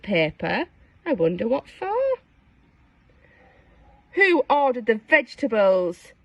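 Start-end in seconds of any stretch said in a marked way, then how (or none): 4.1-6.1 screeching. Acted. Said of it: "screeched the evil pea".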